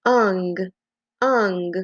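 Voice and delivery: "Ung" given as a sound to repeat; model sound for echoing. Shown as a demonstration. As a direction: say "Ung" as one clean sound. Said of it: "be my echo".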